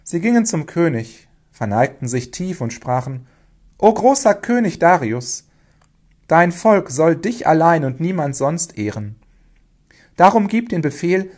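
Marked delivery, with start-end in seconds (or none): 3.8-11.3 grand, raised address to a king; courtly address. A narrator's reading. Princes addressing King Darius, courtly and emphatic. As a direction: hail the king with emphatic deference.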